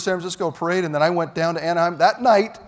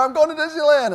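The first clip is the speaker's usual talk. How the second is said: higher, slightly louder slogan; mild retold yell; 11 semitones higher, 5 dB louder than usual. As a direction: retell the camera yell lightly. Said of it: "I yell in the camera".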